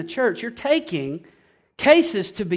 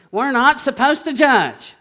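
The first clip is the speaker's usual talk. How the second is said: weary mock quote; 3 semitones higher, 3 dB louder than usual. Preacher quotes what he is tired of hearing, exasperated mimicry. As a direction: parrot the tired objection, only mildly raised. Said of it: "so tired of hearing this".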